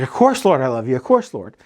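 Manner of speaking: breezy, offhand "of course" tossed back without thought; flippant answer. Retold or imitated. Peter answering Jesus too quickly, flippant and offhand. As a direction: brush it off like it's obvious. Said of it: "almost like a flippant answer".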